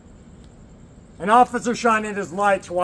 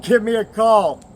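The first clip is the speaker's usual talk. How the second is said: quoted friend, louder and higher; the friend calling out his generous offer; friend's offer; 4 semitones higher, 7 dB louder than usual. Retold or imitated.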